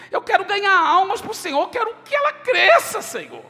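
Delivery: impassioned plea. Retold or imitated. Pastor reliving his prayer to God, a fervent rising plea.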